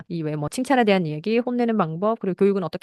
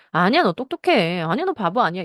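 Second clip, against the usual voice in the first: acted parental reassurance; 4 dB louder than usual. Parent to self-doubting child, reassuring. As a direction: play a parent insisting it isn't so.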